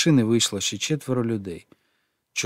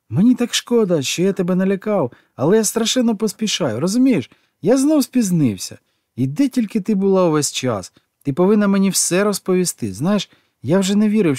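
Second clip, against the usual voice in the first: excited rush; 8 semitones higher, 4 dB louder than usual. A narrator's reading. Gigi rushing, talking breathlessly.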